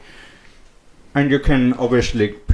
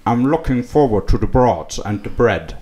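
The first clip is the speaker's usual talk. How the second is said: Sean Connery voice; 3 semitones lower than usual. Acted. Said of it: "in a really shitty Sean Connery voice".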